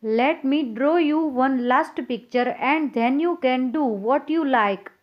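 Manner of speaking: put-on very slow, careful read-aloud for young pupils; slow storybook reading. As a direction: read the story gently, word by word. Teacher reads pencil's line slowly.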